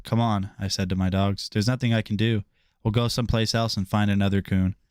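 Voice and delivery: even read-aloud storytelling voice; steady novel reading pace; story narration. Acted. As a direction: read the chapter to your listeners.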